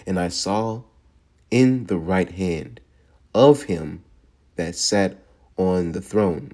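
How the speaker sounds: slow, deliberate reading, word by word; read slowly. Shown as a demonstration. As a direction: give each phrase of scripture its own weight. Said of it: "Let's read that one more time slowly".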